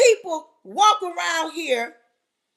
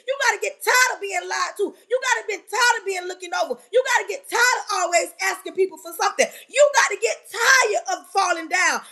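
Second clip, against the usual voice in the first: rising, shouting motivational sermon; preaching at full force; 4 semitones higher than usual. Acted. Preacher firing up her live audience, shouting.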